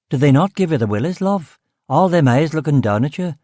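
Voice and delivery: detective chatting up the cook in local Belfast; Belfast demotic. Acted. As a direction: slip into homely Belfast talk. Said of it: "I said in the demotic".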